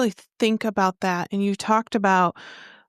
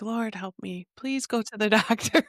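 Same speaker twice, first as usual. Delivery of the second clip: much softer, laughing exasperated plea; 4 dB quieter than usual. Retold or imitated. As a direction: sigh it out, half-joking. Host's reaction to herb-only clients.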